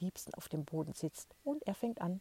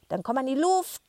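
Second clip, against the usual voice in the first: loud, higher shout back; grandma bellowing; 8 semitones higher, 10 dB louder than usual. Acted. Grandma yells back across the street, loud and higher. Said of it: "brüllte die Oma zurück".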